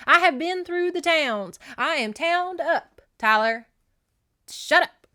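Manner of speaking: loud, high indignant rant; fed-up outburst. Retold or imitated. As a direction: let the exasperation boil over, loudly. Acting Jenny's fed-up outburst.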